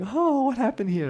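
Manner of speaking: high, bubbly mock cheer; giddy delight. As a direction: ask it as if it were great news. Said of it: "he's like".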